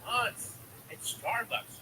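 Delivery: high-pitched little girl imitation; daughter's voice. Dad imitates his daughter asking for a treat, high child voice. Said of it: "and my daughter goes".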